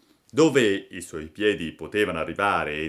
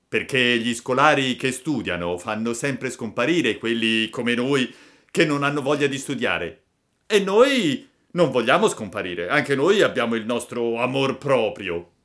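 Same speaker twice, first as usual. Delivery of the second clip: animated, indignant schoolmate; schoolboy bully, aggrieved; 3 semitones higher, 5 dB louder than usual. Acted. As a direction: argue like a slighted schoolboy. Boys explaining their grievance. (monello risentito)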